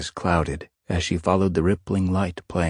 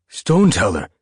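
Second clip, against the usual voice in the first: surprised cry; 4 semitones higher, 7 dB louder than usual. Acted. Surprised reunion with old leader.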